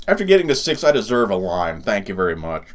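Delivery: talking while chewing; words round a bite of candy; mouth full. Real, not acted. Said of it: "Don't wanna talk my mouth full".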